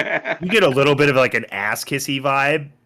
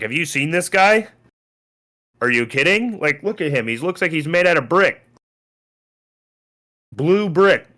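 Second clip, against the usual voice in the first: scoffing lord; 6 semitones higher than usual. Acted.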